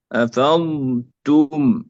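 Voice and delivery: أفضتم slowly, with ض drawn out before ت; أفضتم with a long, unmerged ض; separate lengthened dad. Shown as a demonstration. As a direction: hold the ض in أفضتم, then release a clean ت. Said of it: "مع الاستطالة".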